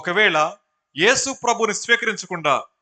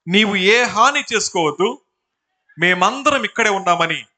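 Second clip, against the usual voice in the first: slow, raised, forceful cry; loud call; 3 semitones higher, 6 dB louder, slower than usual. A narrator's reading. Paul calling to the jailer not to harm himself, loudly. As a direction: call out loudly to stop him. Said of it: "బిగ్గరగా చెప్పాను".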